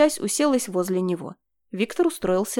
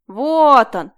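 relieved; 4 semitones higher, 9 dB louder than usual. A narrator's reading. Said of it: "облегчённо вздохнула Марина".

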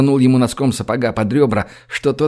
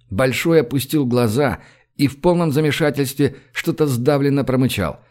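ordinary delivery

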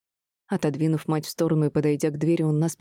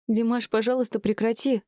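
higher, begging, stress on пожалуйста; pleading; 6 semitones higher than usual. A narrator's reading. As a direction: beg your son to stop. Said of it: "умоляла его Мируэрт". (мать умоляет сына прекратить)

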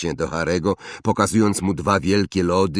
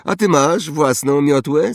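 put-on higher, louder haughty boy voice; snobbish boy; 9 semitones higher, 7 dB louder than usual. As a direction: play a spoiled rich boy. Draco voiced. (wyższy głos zarozumiałego chłopca)

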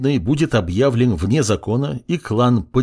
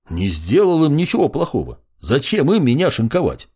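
indignant; 6 semitones higher than usual. A narrator's reading. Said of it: "возмутился Сид".

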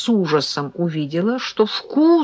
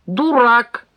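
angry insult; 6 semitones higher, 5 dB louder than usual. A narrator's reading. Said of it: "обозлился Серёжка".

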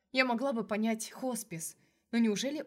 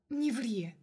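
angry hiss; 3 semitones higher than usual. A narrator's reading. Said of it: "зашипела я зло".

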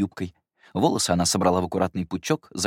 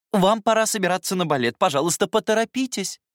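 high, lightly voiced hurrying nanny; governess voice; 12 semitones higher, 4 dB louder than usual. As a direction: hurry the child along, politely.

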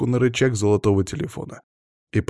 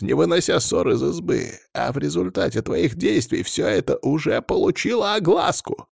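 much higher, angry stern rant; stern scolding; 6 semitones higher than usual. A narrator's reading. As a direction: scold him hard and sternly. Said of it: "строгим голосом произнёс глава рода".

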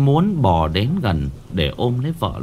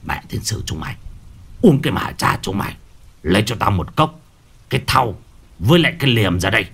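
cursing shaman; faster than usual. Acted. Shaman cursing the family and ordering cup and sickle. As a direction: swear at them, then order fast.

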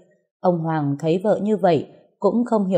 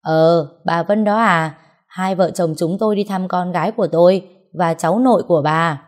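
angry retort; 4 dB louder than usual. Acted. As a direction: bite back at the nosy neighbour. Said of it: "cơn thịnh nộ nổi lên liền đáp".

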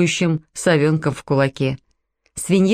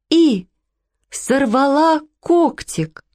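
distressed owner; 8 semitones higher, much slower than usual. A narrator's reading. Distressed owner telling injury.

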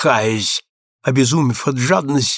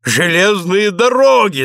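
higher-pitched, moderately forceful roar of admiration; delighted roar; 6 semitones higher, 4 dB louder than usual. A narrator's reading. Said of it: "заревел он". (восторженный рёв)

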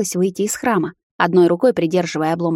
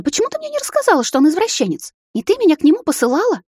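much higher, agitated outburst; indignant sister; 10 semitones higher than usual. Acted. Sister confronts her sister about the pervert, agitated. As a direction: sister demanding answers, rising to near hysteria.

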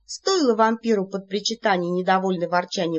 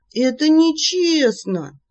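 slow, louder, higher protest; indignant shout; 7 semitones higher, 6 dB louder, slower than usual. Acted. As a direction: shout that it is unfair. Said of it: "кричала я". (возмущённый крик)

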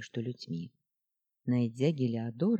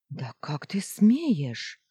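slow indignant flare-up; outraged outburst; 2 semitones higher, 4 dB louder, much slower than usual. Acted. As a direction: flare up in anger. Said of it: "вспылил Андалузит". (вспыльчивое возмущение)

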